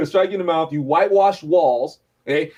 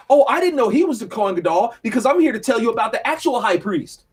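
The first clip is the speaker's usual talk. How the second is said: sarcastic retort; 5 semitones higher than usual. Retold or imitated. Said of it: "Paul is basically saying".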